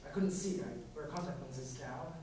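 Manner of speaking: quiet, low and halting; hesitant confession. Acted. Dancer confessing a movie-house memory to the director, hesitantly. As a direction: drop the voice, stumbling with pauses between phrases.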